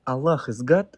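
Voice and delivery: "Allah is God?" with GOD lifting as a question; unsure, questioning. Real, not acted. Guest answering whether he is Muslim, unsure, as a question. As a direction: state it unsurely, rising on "God". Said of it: "it sounded like a question".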